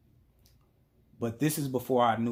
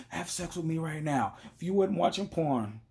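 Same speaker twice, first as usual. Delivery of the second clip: raised-pitch imitation of a demanding girlfriend; mock demand; 6 semitones higher than usual. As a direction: demand proof as the suspicious girlfriend.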